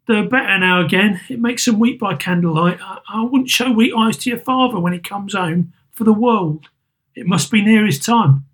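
put-on hide your grief from the children; mother covering her tears; Mrs Cratchit. Mrs Cratchit voiced in story.

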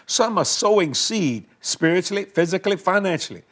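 earnest spoken prayer to Father. Acted. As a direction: pray boldly for the viewers. Leads a prayer on air.

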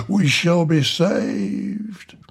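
breathless hushed rapture; a hushed, reverent whisper of hope; awed whisper. Acted. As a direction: whisper it in holy awe. Awed whisper about salvation.

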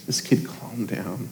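soft unvoiced whisper. Real, not acted. Pastor whispering as the story calms down. Tender moment, voice drops.

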